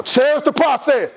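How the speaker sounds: slow, emphatic and fired up; say it like you care. Shown as a demonstration. Speaker urging the crowd to repeat with feeling, emphatic. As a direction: lean in and mean every word. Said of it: "say it like you care about what I'm saying".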